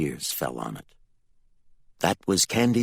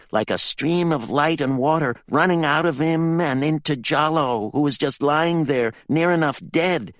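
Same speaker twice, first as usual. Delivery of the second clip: put-on pitched-up, louder boyish retelling; a boy blurting out what he saw; boy's urgent account; 9 semitones higher, 5 dB louder than usual. A narrator's reading. Jalo tells his mother how his brother died, high, pressing voice.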